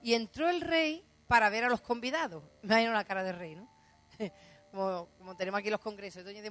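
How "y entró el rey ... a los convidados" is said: lectura bíblica. A narrator's reading. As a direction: read the verse out loudly. Reads the verse aloud. (lectura del versículo en voz alta)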